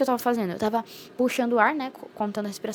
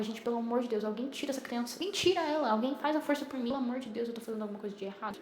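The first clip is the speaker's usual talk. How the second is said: desperate pleading; 4 dB quieter than usual. Retold or imitated. Begging someone to take the baby out.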